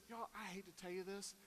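quiet, worn-out sigh of a voice; tired wife. Retold or imitated. Wife telling the family she's exhausted, quiet and weary. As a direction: sound drained after a long week. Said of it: "And Kim says".

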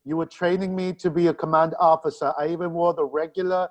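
lightly voiced aggrieved counselor; mild mock reproach, in character; Deanna Troi. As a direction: air a grievance in the counselor's voice. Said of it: "I am Deanna Troi".

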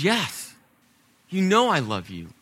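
exasperated yes, then falling away; mildly frustrated insistence; impatient, frustrated. Acted. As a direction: answer with a touch of impatience. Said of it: "impatient and frustrated".

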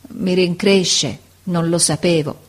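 stammered apology. Acted. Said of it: "Poi balbettò".

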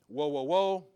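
loud, ringing cry of woe; mock eagle cry, loud. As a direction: call it out like the eagle overhead.

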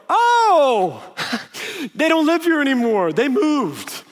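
a high, hammed-up sudden backpedal; sheepish turnaround. Angry big guy suddenly caving to a friend, hammed-up backpedal. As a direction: play the tough guy caving in a hurry.

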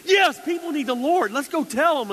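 high, loud, fired-up shout; rally the troops, full of zeal; bold and excited. Retold or imitated. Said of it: "you're so bold and excited".

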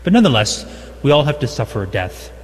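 ordinary delivery

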